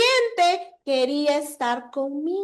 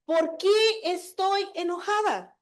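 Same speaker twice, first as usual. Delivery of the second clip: slow self-questioning; 3 semitones higher, slower than usual. Shown as a demonstration. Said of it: "en realidad es eso".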